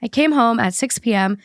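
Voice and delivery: even, measured read-aloud voice; podcast host reading a written account; reading a post aloud. Acted. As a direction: read out a personal story clearly. Reads the listener post aloud.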